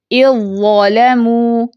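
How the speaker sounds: slow recitation, ذ fully absorbed into ظ in اِذْ ظَلَمُوا; tajweed recitation. Shown as a demonstration. Teacher demonstrates idgham of dhal into za, slow recitation. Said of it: "ذال کی اپنی آواز یا پہچان باقی نہیں".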